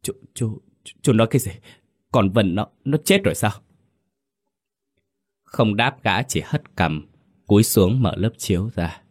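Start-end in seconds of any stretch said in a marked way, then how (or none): 0.0-3.5 stunned disbelief. A narrator's reading. Bà Tám hears her daughter is dead, stammering in shock. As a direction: ask as if the ground just fell away. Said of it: "khựng người hỏi lại".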